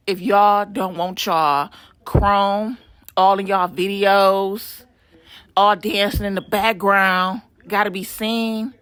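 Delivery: slow, lightly menacing thug voice; a hint of a gangster boss pitching, drawn out; mock thug ad read; Suge Knight impression. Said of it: "did I sound like Suge Knight".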